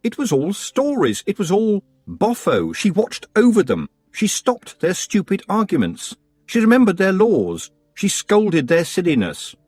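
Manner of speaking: lightly voiced girl, indignant; wanting to yell but holding it in; Tiffany. Tiffany's silent protest.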